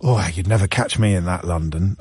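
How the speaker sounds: a hint of a disapproving Kidderminster local; sniffy local. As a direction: scoff like someone who'd never go to the city. Voicing wary small-town locals.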